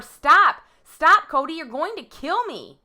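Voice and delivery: loud, urgent retold cry; retold screaming. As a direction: re-enact screaming for your life, short of full scream. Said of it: "I'm screaming over and over".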